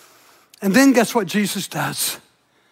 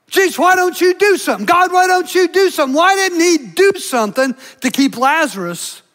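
higher, pressing, faster in the middle; bitter complaint; 4 semitones higher than usual. Retold or imitated. Grieving crowd blaming Jesus, mock bitter outcry. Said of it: "they just spit out their bitterness".

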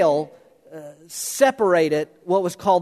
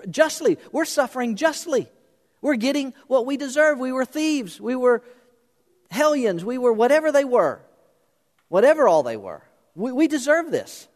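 earnest confession; 6 semitones higher than usual. Acted. Thief confessing on the cross.

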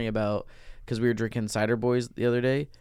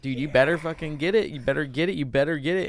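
higher-pitched, pumped-up goading; mock trash talk; 5 semitones higher than usual. Pizza guy ribbing high school players, mock trash talk. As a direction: egg them on with rising insistence.

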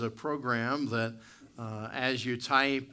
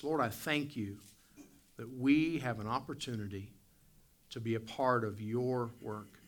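prayer voice. Acted. Leads the congregation in prayer.

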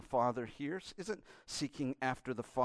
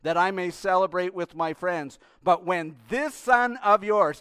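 elder son refusing to say brother; disdainful son; 4 semitones higher, 10 dB louder than usual. Acted. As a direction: spit out son of yours with contempt. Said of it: "The disdain".

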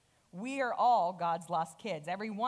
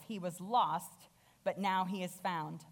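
compassionate father; slower than usual. Acted. Father gently reassuring his jealous older son. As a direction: ease it out tenderly to the older son. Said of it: "again with compassion".

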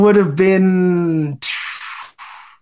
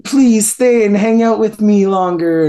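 higher-pitched retold plea; mock pleading, pitched up; 4 semitones higher than usual. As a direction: lightly imitate someone begging for company. Retold date begging him to stay.

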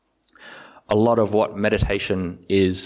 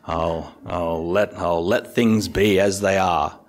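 lightly voiced, slow, couldn't-care-less shrug; mock apathetic calm; slower than usual. Teacher imitating an overly equanimous meditator, mildly apathetic. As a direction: let it go with a lazy indifferent drawl. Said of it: "apathetically, ridiculously equanimous".

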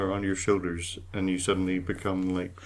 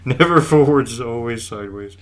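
crab voice; 2 semitones higher, 10 dB louder than usual. Pretend. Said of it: "You and your crabs".

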